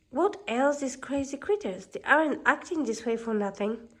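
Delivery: a gruff, grumbling dwarf; grumpy dwarf. Acted. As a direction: complain like a cranky old miner. Grumpy growls at the animals.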